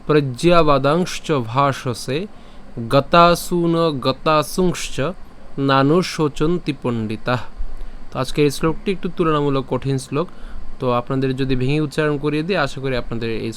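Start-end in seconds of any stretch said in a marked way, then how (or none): 0.1-7.4 slow, measured shloka recitation; Sanskrit verse recitation. Shown as a demonstration. Teacher reciting today's shloka to learners, slow recitation. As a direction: recite the verse slowly, drawing out long vowels.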